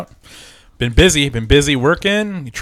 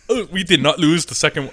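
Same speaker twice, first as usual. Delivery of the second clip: lightly put-on shitty German accent; German-accented mock defiance; bad German accent; 2 semitones higher than usual. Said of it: "That's my shitty German".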